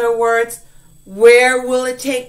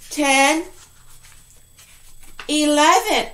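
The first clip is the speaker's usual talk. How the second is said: mock amazement counting; 4 dB louder, much slower than usual. Counting story pages in mock amazement.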